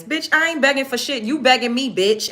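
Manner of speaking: high, heated denial; indignant clapback. Real, not acted. Hits back at begging accusation.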